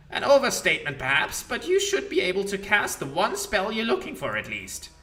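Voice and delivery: mocking ancient lich scolding; Demilich voice. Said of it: "Demilich voice".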